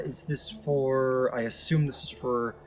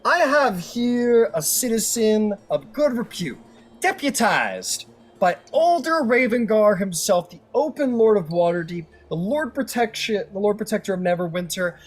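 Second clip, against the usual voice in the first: sway the jury with pomp; a lawyer addressing the jury, hammed-up and grandiose; courtroom closing speech; 3 semitones higher than usual. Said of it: "I can't believe I'm doing this shit".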